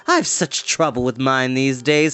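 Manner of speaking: gossipy witch, speeding up; chatty enchantress. Acted. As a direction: chatter about her hair to the girl. Enchantress voice held.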